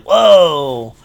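a nerd's awed whoa, imitated; mild mock whoa. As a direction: nerds gasping in awe. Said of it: "Even they were like".

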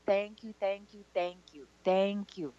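thankful. Retold or imitated. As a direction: relay her gratitude softly. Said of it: "she's so thankful".

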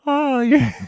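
Simpsons nerd voice. Retold or imitated. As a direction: squeak it like a cartoon nerd. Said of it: "sounds like the nerd from The Simpsons".

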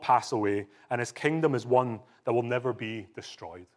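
solemn Bible reading; scripture reading. Acted. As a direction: read it out like a proclamation. Reads scripture aloud.

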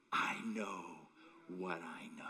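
low, soft, sinking near to a whisper; quiet, weighty resolve; hushed conviction. Retold or imitated. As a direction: drop right down and state it quietly. Acted quote of Job, hushed conviction.

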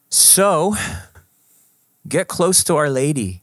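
lifts high and loud on the call; rally the listeners warmly; rousing exhortation. Real, not acted. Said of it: "closing exhortation".

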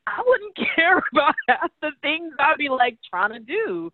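high, laughing answer; laughing relief. Retold or imitated. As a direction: laugh it out, freed. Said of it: "And I was like".

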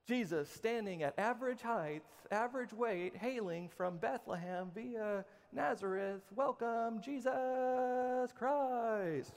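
drawn-out ring announcer intro, slow at the end; boxing ring announcer. Pretend. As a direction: announce him like a big fight. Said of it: "like the announcer for the".

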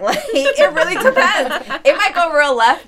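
laughing through the words; giggling as she talks. Real, not acted. Laughing while talking.

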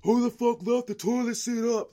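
high, loud hammed-up shriek; mock outraged yell. Imagined angry housemate storming out of bathroom, hammed-up shriek. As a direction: scream it like a furious roommate. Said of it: "I'm not gonna walk out the bathroom like".

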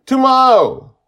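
put-on very high, loud child's wail; desperate shout. A narrator's reading. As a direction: shriek it out in protest. Child cries out in protest.

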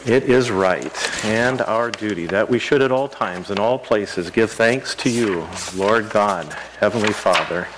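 solemn, measured prayer voice; liturgical prayer. Acted. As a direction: lead the prayer with reverence. Leads the eucharistic prayer.

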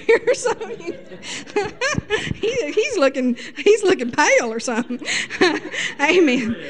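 giggling through the words; laughing. Real, not acted. Preacher teasing pale Jim in the congregation, laughing. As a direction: laugh while teasing him.

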